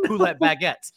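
badly attempted French accent; clumsy stab at a French accent; French words in a poor accent; terrible French accent. Shown as a demonstration. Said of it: "in this terrible accent".

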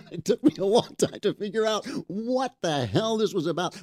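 amused, high-pitched laughing aside; chuckles through the words. Real, not acted.

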